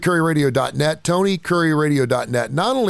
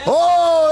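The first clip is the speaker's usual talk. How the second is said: long high mournful howl; wolf howl; 6 dB louder than usual. Pretend. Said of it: "That almost sounded like a wolf".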